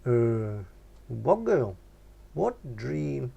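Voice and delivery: a hint of a dopey mate, mumbling with his mouth full; lightly voiced lad, confused and dismissive; Nobby's murmur. A narrator's reading. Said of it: "murmured Nobby".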